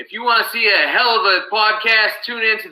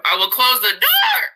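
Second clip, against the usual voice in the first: shouted threat; 3 semitones higher than usual. Acted. Wrestler promo threat.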